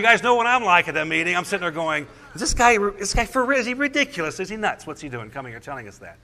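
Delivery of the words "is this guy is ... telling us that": incredulous. Retold or imitated. Acting out his disbelief at meeting.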